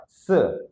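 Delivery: SE as s with a schwa; s plus vowel. Shown as a demonstration. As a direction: hiss the s, then open into "suh". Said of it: "kita tambahin vokal biar bersuara".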